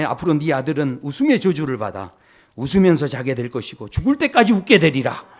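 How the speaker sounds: hammed-up divine decree; mock curse. Imagined God cursing Abraham's son with laughter, mock-solemn. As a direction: pronounce it like a sentence being passed.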